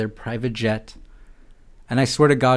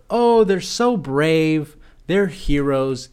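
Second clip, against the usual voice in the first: mock gushing; 3 semitones higher, much slower than usual.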